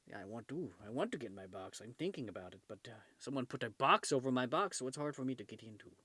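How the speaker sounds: voice of the cat. Pretend. Voices the cat's answer.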